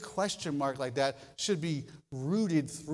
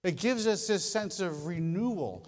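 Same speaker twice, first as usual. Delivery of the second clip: ordinary talk, nothing marked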